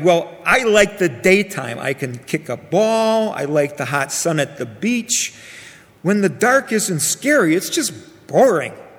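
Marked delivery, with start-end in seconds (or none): none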